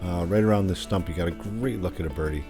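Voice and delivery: hole preview voiceover; steady course walkthrough read; golf commentator. Acted. Recorded hole preview over music.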